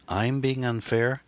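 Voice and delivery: high, slow, indignant question; incredulous retort. A narrator's reading. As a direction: draw it out in rising disbelief. Indignant echo in an acted quarrel.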